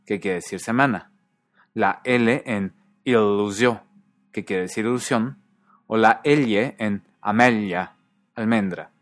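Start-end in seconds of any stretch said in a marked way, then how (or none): 1.7-3.8 ilusio with a held double l, slowly; long l. Shown as a demonstration. Teacher showing Catalan long consonants, drawn out. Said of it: "consonantes largas". 5.9-8.0 amelia with a held l, slowly; long l. Shown as a demonstration. Teacher showing Catalan long consonants, drawn out. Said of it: "consonantes largas".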